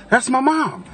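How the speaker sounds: high-pitched imitation of a woman's dismay; distressed daughter. Daughter seeing her mom on the ground, imitated dismay. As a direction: mimic a daughter's shocked realisation. Mimics daughter realising victim is mother.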